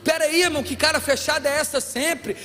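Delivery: playful scolding, then a slowed "sai de mim"; mock exasperated plea. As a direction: tease the grumpy brother, half joking. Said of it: "que a gente diz pra uns aí".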